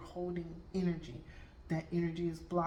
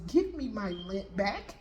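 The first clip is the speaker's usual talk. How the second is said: slow, emphatic mock demand, a bit louder; 3 semitones higher, 5 dB louder, slower than usual. Son demanding his lint back from mom, slow mock indignation. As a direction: draw out the demand, playfully indignant.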